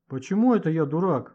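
flaring up, lightly acted; indignant. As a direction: bristle at the insult. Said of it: "взвился Гошка".

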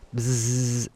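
low buzzing snore; snoring. A narrator's reading. Narrator imitates the dozing psychoanalyst, low buzzed snore. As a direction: buzz out a sleeper's snore. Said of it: "Lo psiche russa".

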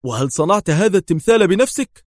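high, loud wondering question; surprised. A narrator's reading. Yael asks Adham about the statue, surprised. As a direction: ask it wide-eyed. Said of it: "سأله في دهشة".

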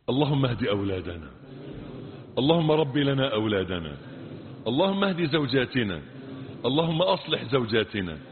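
steady, measured prayer cadence; supplication. Acted. Preacher leading the congregation in prayer, measured. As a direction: pray over the people in a steady chant.

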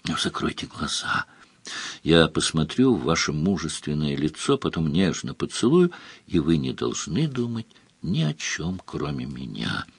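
low, hushed, intimate voice; soft seductive coaxing. A narrator's reading. Countess tells baron to close his eyes, softly seductive.

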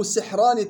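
سحران said "sihran"; short "si" and vowelless ha in سحران; kasra sin, still ha. Shown as a demonstration. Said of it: "كسر السين وإسكان الحاء". (سحران بكسر السين وإسكان الحاء)

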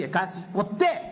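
normal talking voice

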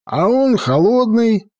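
put-on high, slow drunken disappointment; disappointed. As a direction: whine it like a let-down drunk. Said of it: "разочарованно сказал".

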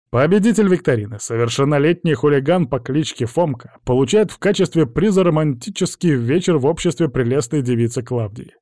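lightly pompous prize announcement; a hint of a game-show host; mock quiz announcer. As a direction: proclaim the winner with mock ceremony.

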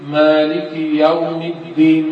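slow "يوم" opening on a clear open "ya"; correct fatha yaa. Shown as a demonstration. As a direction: chant "مالك يوم الدين" slowly, open "ya" in "يوم". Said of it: "الياء فتحة ياء".

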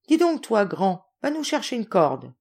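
high, bossy order opening sharply; imperious child. Acted. Mitineka sending Jacques for a rope, imperious. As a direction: order the servant about like a little master. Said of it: "ton impérieux de Mitineka".

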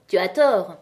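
light mocking reproach; provoking. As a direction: tell her she's wrong with mild provocation. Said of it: "de son air provoquant".

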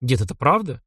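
ordinary delivery, nothing marked

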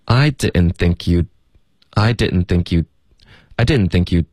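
"think you'd" linked, final d of "you'd" swallowed; slow demo, "you'd" ending without its d; dropped final d. Shown as a demonstration. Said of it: "省略了". (“you'd”连读并省略结尾d)

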